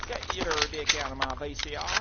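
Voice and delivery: put-on Southern hillbilly accent; Southern American hillbilly. Shown as a demonstration. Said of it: "the hillbilly thing".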